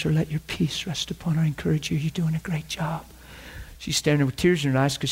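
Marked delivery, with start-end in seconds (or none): 2.0-3.1 soft, whispered reassurance; hushed words to a tired cashier; whispered encouragement. Retold or imitated. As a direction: lean in and whisper it kindly.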